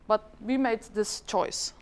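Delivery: usual speaking voice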